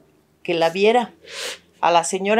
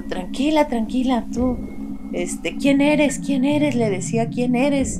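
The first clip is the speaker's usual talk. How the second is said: urgent questioning; 5 semitones higher, slower than usual. Retold or imitated. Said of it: "le digo".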